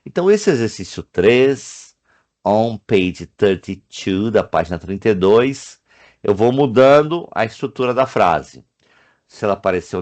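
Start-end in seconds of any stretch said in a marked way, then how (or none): 2.4-4.3 very slowly spelled out; slow teacher aside; slow reading. Shown as a demonstration. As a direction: read the page number slowly. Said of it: "teacher reading page number".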